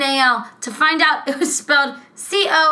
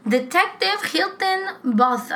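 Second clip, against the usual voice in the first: detective voice; 7 semitones higher, slower than usual. Acted. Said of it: "I'm gonna stop talking like that".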